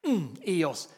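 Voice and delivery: ordinary delivery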